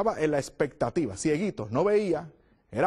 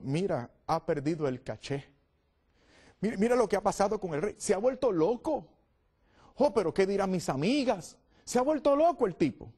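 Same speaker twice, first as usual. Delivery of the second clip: scornful wife; 3 semitones higher than usual. Acted.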